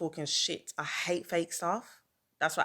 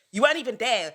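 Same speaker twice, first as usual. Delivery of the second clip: laughs through an exasperated line; half-laughing in disbelief; incredulous laugh mid-rant; 5 semitones higher, 6 dB louder, faster than usual. Real, not acted. Ranting at absent friend, laughing.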